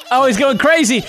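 high-pitched amazed commentary; excited. Real, not acted. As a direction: call it out with rising excitement. Watching character launch in game.

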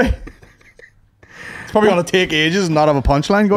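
whispered, slow aside. Real, not acted. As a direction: whisper it behind the reader's back. Muttered aside while friend reads.

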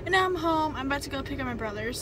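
out of breath, rushing the words; breathless after running around; gasping for air. Real, not acted. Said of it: "so sorry I'm out of breath".

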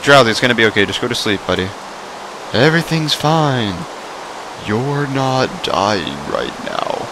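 calm a dying pet, gently; mock soothing. Gamer mock-consoling his Pokemon Drowsy.

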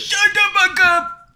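loud, high yell; shouted. Real, not acted. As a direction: yell at your friend. Yelling at friend.

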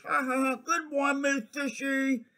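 high fake ha-ha-ha; mock laughing blowfish. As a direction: laugh politely into the phone.

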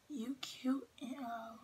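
slow hushed whisper. Real, not acted. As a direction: whisper the comment slowly. Reading comment in whisper.

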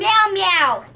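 cat meow. Pretend. Playing cat.

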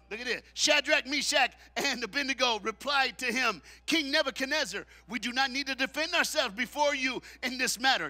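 loud preacher reading scripture; full-force preaching. Acted. Preacher reads the defiant reply to the church, preaching loud. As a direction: proclaim it to the pews.

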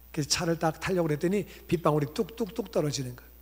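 ordinary delivery

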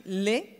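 "les" set apart and drawn out; stress on plural "les". Shown as a demonstration. Teacher correcting her students' article, stressed "les". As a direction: say "les" alone, as a lesson in the plural. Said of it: "il faut d'abord commencer à dire".

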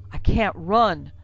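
slow, loud, drawn-out moan; pained moan. A narrator's reading. Limping Ephraim tells Becker he is stuck, moaning. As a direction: moan it out, stretching the last word. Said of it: "Ephraim moaned".

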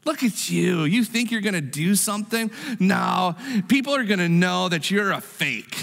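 the enemy belittling you; Sanballat. Acted. Preacher as the enemy calling the listener a fake, scornful. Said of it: "You ever hear that voice?".

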